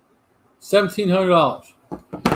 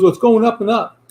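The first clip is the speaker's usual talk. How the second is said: excited friend; 7 semitones higher, 4 dB louder than usual. Retold or imitated. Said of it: "He goes".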